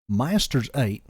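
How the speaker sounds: goofy Georgian drawl; Southern Georgian accent turned cartoonish; lazy Georgian accent. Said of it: "Oh, that's goofy".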